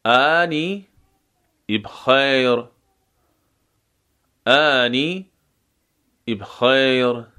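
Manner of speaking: بخیر with a silent-vowel b and a short i before it, ibxer; انی بخیر as ani ibxer; sukun on b. Shown as a demonstration. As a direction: start بخیر with a short i glottal onset, no vowel after b.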